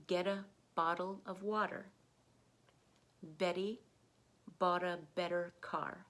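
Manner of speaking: each word with a rising tune, T flapped; repeat-after-me list. Shown as a demonstration. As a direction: model each word for the learner to echo. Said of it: "I'm gonna say the words again".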